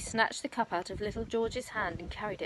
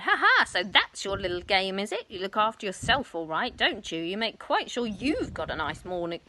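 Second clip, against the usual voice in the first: accusing crone; 2 semitones higher, 4 dB louder than usual. Acted. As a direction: sneer it out, rising to a screech. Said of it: "she cried".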